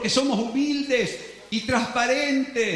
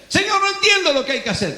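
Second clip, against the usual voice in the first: higher, fast fretful plea; anxious whining prayer; confused believer; 7 semitones higher, 4 dB louder, much faster than usual. Acted. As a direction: rush out the complaint anxiously. Believer pleads to God.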